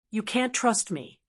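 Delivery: words muffled as if under a helmet. Acted. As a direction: speak muffled through armor. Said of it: "said in a muffled voice".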